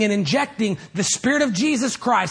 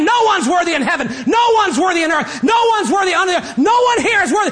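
high, loud proclamation; angel proclaiming; 9 semitones higher, 4 dB louder than usual. Acted. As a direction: cry it across the courtroom. Angel comes out and said.

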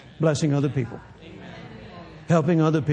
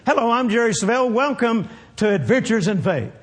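TV host voice; 3 semitones higher than usual. Retold or imitated. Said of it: "I made it look like it was one of our television broadcasts".

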